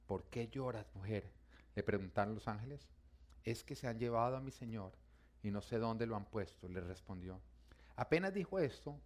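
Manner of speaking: measured Bible narration; narrating a Gospel story; scripture reading. Acted. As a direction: read the passage aloud to a congregation. Continues reading the Bible passage.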